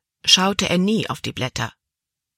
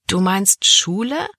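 slow disbelief rising sharply at the end; incredulous question; 4 semitones higher than usual. Acted. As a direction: check it slowly, as if you misheard. Girl dismayed at having lessons.

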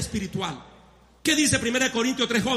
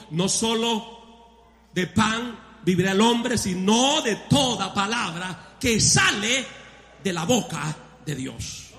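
solemn scripture reading; slower than usual. Acted. Quoting scripture slowly.

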